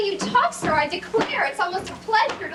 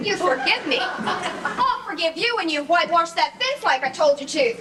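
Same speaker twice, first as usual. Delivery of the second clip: laughing mockery; 3 semitones lower than usual. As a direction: lower pitch, chuckling through the words. Polly mocking Tom's forgiveness.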